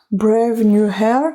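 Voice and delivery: slow English with a French accent. Real, not acted. Naming a hair mask to viewers, French-accented English. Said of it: "Désolée pour mon accent anglais".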